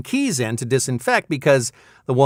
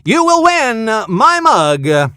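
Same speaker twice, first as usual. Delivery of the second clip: raised, emphatic prize terms; game-show prize announcer; 5 semitones higher, 5 dB louder than usual. Pretend. Announcer tells winner how to claim mug, announcer style. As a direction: read the winner the rules with showy stretched endings.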